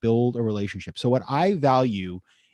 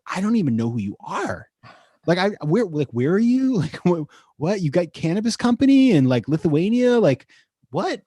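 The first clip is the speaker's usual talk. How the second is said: higher, louder incredulous mock rant with a laugh; annoyed disbelief; 6 semitones higher, 4 dB louder than usual. Investor reacting to a cold LinkedIn pitch, incredulous and annoyed. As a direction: act baffled and a little annoyed at a random pitch. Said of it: "I get a little annoyed".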